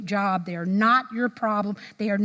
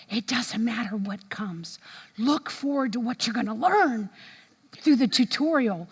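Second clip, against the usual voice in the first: gentle encouragement. Retold or imitated. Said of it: "someone said to you".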